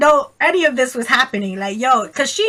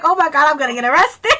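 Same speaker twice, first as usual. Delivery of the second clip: quick, higher-pitched mock panic; retold panic; 4 semitones higher, 4 dB louder, faster than usual. Bystander fearing arrest during friend's outburst, mild panic. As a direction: blurt it fast, alarmed.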